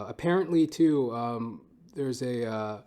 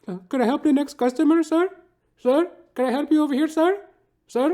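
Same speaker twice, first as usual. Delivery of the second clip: put-on much higher, louder, fast Indian-accented cashier; imitated Indian accent; 10 dB louder than usual. Cashier calling the next customer in a hammy Indian accent. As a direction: rattle it off high and quick in a put-on Indian accent. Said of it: "Hindu dude working the till".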